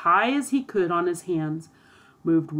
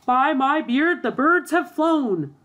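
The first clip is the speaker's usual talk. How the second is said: high, drawn-out exclamation of alarm; acted outburst, pitched well up; astonished cry; 8 semitones higher, 4 dB louder than usual. A narrator's reading. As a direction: cry out in dismay at an escape. Thief discovers the escape amid shouting.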